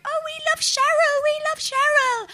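hammed-up adoration; mock fan gushing. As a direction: coo like a besotted fan. Mocking Cheryl fans.

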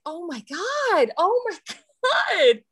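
slow, high, breaking into laughter; laughing disbelief. Real, not acted. Teacher recalling the kid's swamp remark, laughing in disbelief. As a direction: let the laugh take over the words.

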